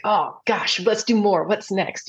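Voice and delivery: mildly excited self-quote. Retold or imitated. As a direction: act out eager excitement, lightly. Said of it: "just excited, like".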